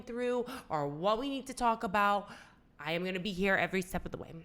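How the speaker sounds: steady and soothing, each phrase given time; calming reassurance. Retold or imitated. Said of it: "kinda, like, calmed me down".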